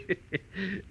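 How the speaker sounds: short high mocking laugh. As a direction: scoff with a laugh.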